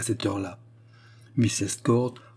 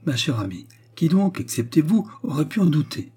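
gaily; 6 semitones higher than usual. A narrator's reading. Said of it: "demanda gaiement la princesse".

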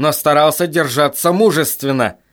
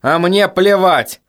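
yelling; 5 semitones higher, slower than usual. Acted. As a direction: spit the words out in fury. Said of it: "орал Брэндон".

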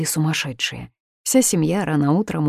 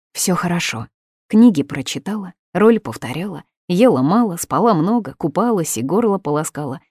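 rattled off; 4 semitones higher, 4 dB louder than usual. Acted. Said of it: "скороговоркой ответила Мила".

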